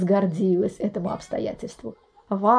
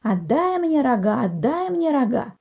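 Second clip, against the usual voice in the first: mild mock yell, stretched "рога"; roosters crowing out; 3 semitones higher than usual. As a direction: roosters bawl at the river for horns. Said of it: "кричат во всё горло".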